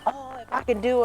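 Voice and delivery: a touch of high-pitched self-mocking complaint; mock whining. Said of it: "she got tired of me whining".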